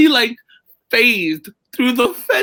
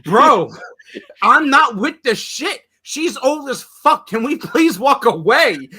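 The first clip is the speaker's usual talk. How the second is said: failed whisper; 5 semitones higher than usual. Retold or imitated. Imitating a friend's plea to walk away, badly failed whisper. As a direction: try to be subtle and practically yell. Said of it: "This is Hector trying to be subtle and whispering".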